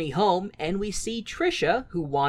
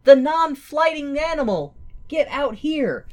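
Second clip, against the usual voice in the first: mock dumb Guido; 9 semitones higher, 4 dB louder than usual. Mocking Guido's dumb question.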